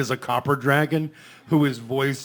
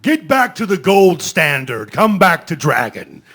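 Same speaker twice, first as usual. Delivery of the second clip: Smaug impression; 3 semitones higher, 8 dB louder than usual. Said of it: "when Benedict did the".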